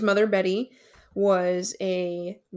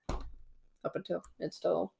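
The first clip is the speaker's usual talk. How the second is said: whisper; 8 dB quieter than usual. Real, not acted. Drops to aside.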